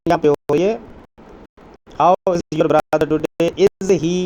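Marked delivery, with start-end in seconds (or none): 2.0-4.1 slow reading. Shown as a demonstration. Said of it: "reading exercise sentence slowly".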